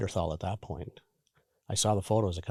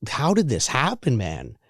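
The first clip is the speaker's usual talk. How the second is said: frustrated bewilderment; 2 semitones higher, 3 dB louder, slower than usual. Retold or imitated. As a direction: ask it in exasperated disbelief. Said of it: "all of that frustration and, like, bewilderment".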